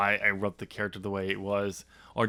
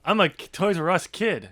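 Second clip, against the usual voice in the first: higher sing-song brat; Skylar bratty; 7 semitones higher than usual. Retold or imitated. Skylar bragging, higher sing-song brat. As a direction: sing it like a smug kid. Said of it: "He's like".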